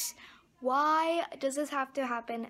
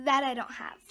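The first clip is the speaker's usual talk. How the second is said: crying. Real, not acted. Broke, can't afford card.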